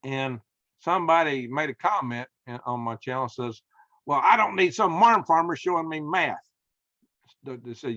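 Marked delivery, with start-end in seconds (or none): 4.1-6.4 mildly mocking imitation of a scoffer, louder and higher; dismissive commenter. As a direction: scoff like an online heckler, half in jest.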